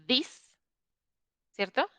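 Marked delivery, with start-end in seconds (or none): 0.1-0.5 "this" with the tongue between the teeth; demo of this. Shown as a demonstration. Teacher showing her tongue position on "this". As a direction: say "this" short and dry, tongue showing. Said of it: "ese tipo de D es como".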